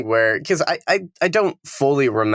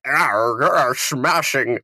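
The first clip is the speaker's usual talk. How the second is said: villain growl; 2 semitones higher, much slower than usual. Retold or imitated. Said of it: "shifts into his, like, "I'm the villain".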